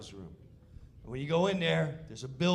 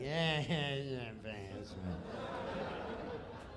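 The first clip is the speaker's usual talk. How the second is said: dismissive yeah; 6 semitones lower, 7 dB quieter, much slower than usual. Retold or imitated. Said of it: "He's like".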